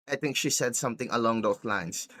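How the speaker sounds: ordinary talk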